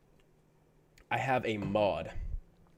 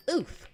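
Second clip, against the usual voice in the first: happy oof. Pretend. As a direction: pitch the oof way up but keep it small. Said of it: "how do you do that in a happy voice".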